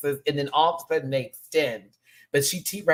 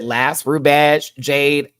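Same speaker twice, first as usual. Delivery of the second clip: mock announcement; 10 dB louder, much slower than usual. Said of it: "When she said".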